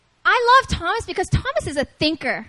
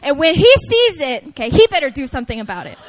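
put-on comic girlfriend warning, quickening at the end; hammed-up mock threat; miffed girlfriend; 2 semitones lower, 4 dB louder, faster than usual. Girlfriend expecting him to act, comically indignant. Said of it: "doesn't know that I'm mad".

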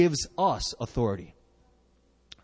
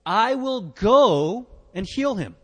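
voicing Jesus; 5 semitones higher, 4 dB louder, slower than usual. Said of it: "Jesus said to him".

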